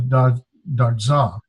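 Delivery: slow da, da za, built up in pieces; careful teaching da za; syllable by syllable. Shown as a demonstration. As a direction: sound out da, then da za. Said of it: "it is pronounced with the".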